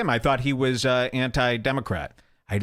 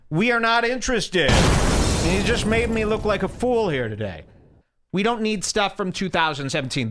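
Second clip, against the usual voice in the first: mock yelling; 5 semitones higher than usual. Scolding viewer Wilton Jordan in a mock angry rant. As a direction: chew out the viewer in fake anger. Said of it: "I gotta yell at Wilton Jordan".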